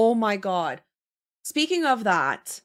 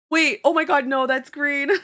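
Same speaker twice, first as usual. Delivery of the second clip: louder, startled correction after a gasp; sudden realization; 3 semitones higher, 5 dB louder than usual. Retold or imitated. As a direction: catch the mistake in alarm. Realizing the car is green.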